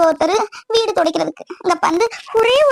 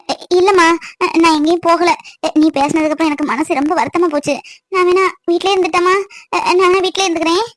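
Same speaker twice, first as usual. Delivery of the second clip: meek husband appeasing his angry wife; humble and meek; 2 semitones lower than usual. Acted. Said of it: "முகத்தை பணிவா வச்சு பேசணும்".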